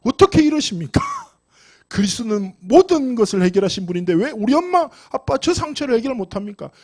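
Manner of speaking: re-enacted pleading with God, starting on a sigh; imitated anguished complaint in prayer; mock tearful prayer. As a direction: plead as if praying through tears, lightly hammed-up. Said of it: "얼마나 울면서 기도 많이 했겠어".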